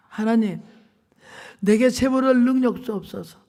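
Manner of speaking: lightly voiced earnest prayer; fervent prayer. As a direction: cry out to God for provision. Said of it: "기도하기 시작했어요".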